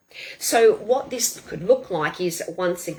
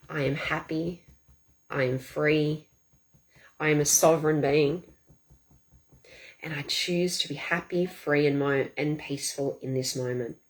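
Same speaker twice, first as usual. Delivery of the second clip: calm affirmation; 4 semitones lower than usual. Shown as a demonstration. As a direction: affirm it gently, pausing between phrases. Demonstrating calm positive tapping affirmations.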